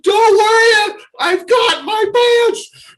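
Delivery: high, loud, slow exultant yell; overjoyed cry, stretched out; joyful shout. Retold or imitated. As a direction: shout the good news with glee. Reassuring dog owner, overjoyed.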